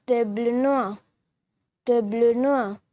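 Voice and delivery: table noir said tah-BLOH NWAR; French tableau noir. Shown as a demonstration. Teacher showing viewers how to say table noir, clear demo. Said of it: "We say blackboard in French".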